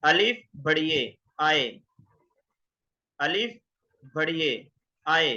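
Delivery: "अलिफ बढ़िए आए" spelled out slowly; spelling in Urdu. Shown as a demonstration. Teacher spelling the diphthong in Urdu, slow and careful. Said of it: "आप उर्दू में लिख सकते हैं".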